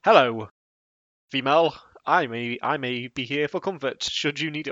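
stiff, mechanical pickup line; lightly robotic creep reading his line. Retold or imitated. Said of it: "very robotic as well".

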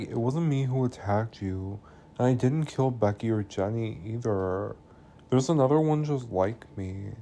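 hushed imitation of his confession; retold earnest plea. Jake tells Ellie he didn't attack her, retold earnest plea. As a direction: play him softly protesting innocence.

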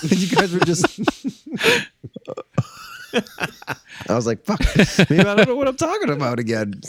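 glitchy internet call voice; broken-up laggy call audio; wobbly warbling call audio. Real, not acted. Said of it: "You're glitching out again".

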